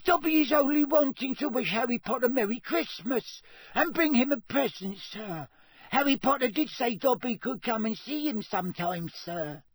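anxious, very high house-elf squeak; Dobby. A narrator's reading. Dobby explains his Christmas visit to Harry, anxious squeak. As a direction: plead in a squeaky little elf voice. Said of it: "squeaked Dobby anxiously".

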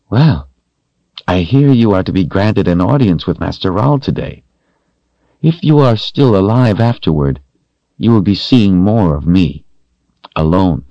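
loud sneering threat; gloating, menacing taunt. A narrator's reading. Constance taunting Richard.

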